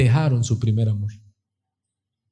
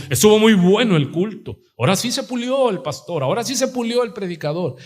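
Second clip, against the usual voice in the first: lightly voiced admiring churchgoer, pitched up; impressed churchgoer; 4 semitones higher than usual. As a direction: gush a little over the sermon. Voices churchgoers praising the service. (feligrés admirado)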